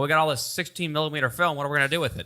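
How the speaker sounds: lightly voiced old-timey announcer; a hint of a vintage newsreel man. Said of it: "I'll give you about a B plus on your old timey voice".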